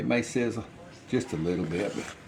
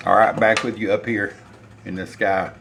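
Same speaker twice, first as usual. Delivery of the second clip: booming call; 9 dB louder than usual. Real, not acted. Standing tall at the stove, calling loudly to viewers. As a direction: boom it out like you're up in the sky.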